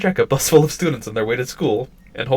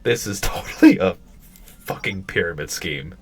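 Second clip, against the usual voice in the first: laughing; 2 semitones lower than usual. Real, not acted.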